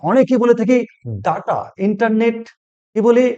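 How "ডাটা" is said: ডাটা with open "a" in both syllables; mispronounced data. Shown as a demonstration. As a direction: say ডাটা as "DAA-taa". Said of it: "কিন্তু ডাটা নয়". (ডাটা-র ভুল উচ্চারণ, "ডা-টা")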